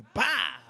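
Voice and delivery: sharp loud slap sound; spank smack sound. Retold or imitated. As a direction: imitate a spank. Imita nalgada. (imita una nalgada, fuerte y seco)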